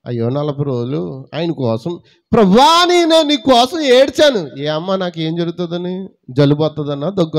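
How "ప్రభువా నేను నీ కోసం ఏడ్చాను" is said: mock tearful prayer.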